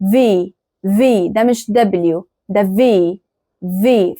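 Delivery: "في" said with a buzzing English V, not W; English V sound. Shown as a demonstration. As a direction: say "في" as English V, lip on teeth. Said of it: "بيتنطق زي ال V كده بالإنجلش". ("في" بصوت V زي الإنجليزي، مش W)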